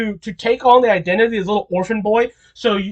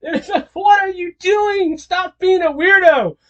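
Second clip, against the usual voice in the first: much higher, incredulous; squeaky mock complaint; exasperated high voice; 9 semitones higher than usual. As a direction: fan voice scolding Muzan, much higher. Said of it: "He's just like".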